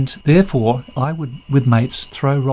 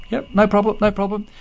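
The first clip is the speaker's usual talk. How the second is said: high voice; 9 semitones higher than usual. Retold or imitated. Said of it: "And he said".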